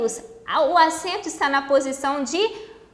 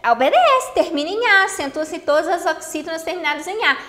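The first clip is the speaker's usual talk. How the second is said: student's reasoning; 3 semitones higher, 3 dB louder than usual. Acted. Teacher voicing what the student will think, eager student's reasoning. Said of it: "Aí você vai pensar pra mim".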